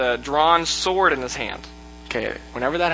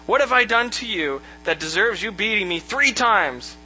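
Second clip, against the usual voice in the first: higher, hurt questioning; a hint of indignant donkey; lightly voiced talking donkey; 4 semitones higher than usual. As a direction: protest as the wronged donkey, lightly acted. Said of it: "it asked Balaam".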